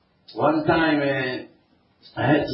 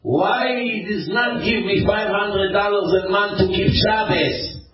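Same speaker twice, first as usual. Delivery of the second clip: imitating the angry son; 7 semitones higher, 3 dB louder than usual. Rabbi retelling a Hasidic son's complaint about his father, mimicking the resentful whine.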